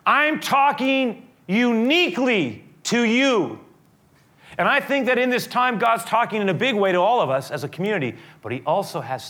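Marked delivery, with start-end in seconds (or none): 0.1-3.6 voicing God. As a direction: speak as God, personally to one listener. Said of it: "it's like God is saying".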